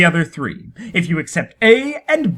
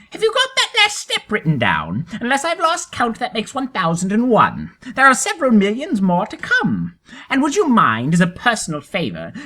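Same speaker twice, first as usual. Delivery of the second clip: lightly voiced tortoise; 5 semitones higher than usual. Tortoise voiced, higher pitch.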